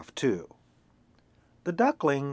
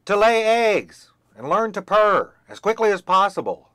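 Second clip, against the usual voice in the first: indignant hen; 3 semitones higher, 5 dB louder than usual. Acted. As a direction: scold the ungrateful child. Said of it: "hen rants at duckling".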